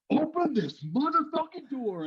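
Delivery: high mock shout; angry yelling. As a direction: demand it like an angry sergeant. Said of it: "and they're like".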